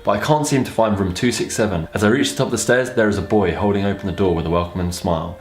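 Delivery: even, measured read-aloud; narrating a story aloud; story narration. A narrator's reading.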